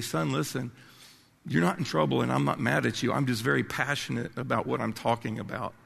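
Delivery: put-on calm the boy down, no anger in it; reassuring grandson. Grandfather reassuring his grandson he's not in trouble, softly. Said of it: "look at him and say".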